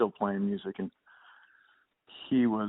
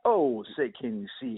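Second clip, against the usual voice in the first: mock spoken-word anthem, rising at the end; hammed-up beat poetry reading; 2 semitones higher than usual. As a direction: recite the anthem like a beatnik poet. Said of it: "spoken word, uh, version with someone".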